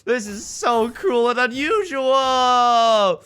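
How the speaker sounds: high, loud, drawn-out protest; mock wail. Streamer protesting a book he couldn't finish, mock wail. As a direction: wail it in hammed-up agony, stretching the last word.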